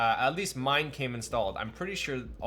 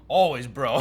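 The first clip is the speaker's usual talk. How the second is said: Bueno impression; 7 dB louder than usual. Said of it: "I can't do it".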